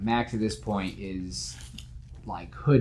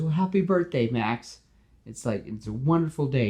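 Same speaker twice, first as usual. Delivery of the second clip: cheerful, chatty superhero; Spider-Man voice; 5 semitones higher than usual. Acted.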